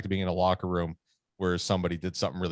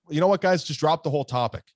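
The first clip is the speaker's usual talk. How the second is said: irritated; 7 semitones higher, 4 dB louder than usual. Retold or imitated. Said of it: "he's like".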